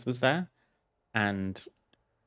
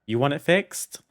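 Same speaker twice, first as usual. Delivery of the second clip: retold telling-off; 5 semitones higher, 5 dB louder than usual. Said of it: "So I was like".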